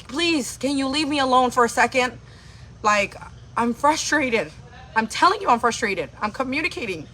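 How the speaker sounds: pleading loudly for some space. Retold or imitated. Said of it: "I had to raise my voice".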